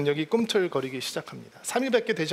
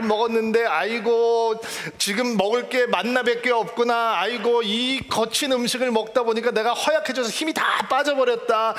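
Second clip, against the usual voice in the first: mock wailing complaint; 3 semitones higher than usual. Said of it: "이러면서 "아이고".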